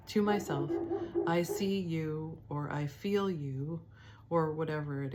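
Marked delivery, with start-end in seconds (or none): 1.3-3.8 gentle inner voice. Shown as a demonstration. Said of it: "I do it like this".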